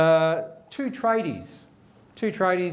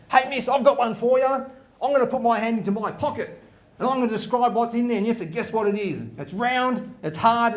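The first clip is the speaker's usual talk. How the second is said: lightly voiced pupil, pitched up; cheeky schoolboy; 4 semitones higher than usual. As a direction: pipe up like a cheeky kid. Fed-up Johnny challenges the teacher.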